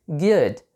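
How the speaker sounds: GOOD as one English syllable, clean final D; correct pronunciation of good. Shown as a demonstration. Teacher gives the right way, good correctly pronounced. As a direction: say "good" without any added final vowel. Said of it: "O jeito certo de se falar".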